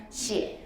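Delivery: 시에 whispered, ending in a clear 에; whispered model. Shown as a demonstration. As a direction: breathe 시에 softly, no 어 sound. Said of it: "시어가 아니라". (속삭이듯 시에, 어가 아닌 에)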